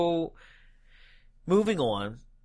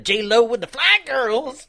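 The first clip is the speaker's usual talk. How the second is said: hype announcer; 7 semitones higher, 6 dB louder, slower than usual. Pretend.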